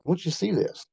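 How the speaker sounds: mock yell to fetch someone over; retold yell. Teammate calling Tom over to the fire, mild high-pitched yell. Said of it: "Dusty Roof yells at me".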